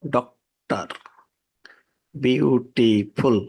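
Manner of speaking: ডক্টর and বিউটিফুল stressed at the start, slow; বিউটিফুল drawn out slowly, first syllable strong. Shown as a demonstration. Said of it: "উদাহরণ হিসেবে বলতে পারি".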